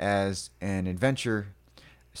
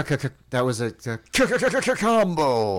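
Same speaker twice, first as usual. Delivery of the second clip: fighting game announcer; 4 semitones higher, 3 dB louder than usual. Acted. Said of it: "fighting game announcer voices".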